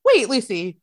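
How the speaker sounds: high, incredulous squeal breaking into laughter; mock astonishment. Retells friends' astonished realisation.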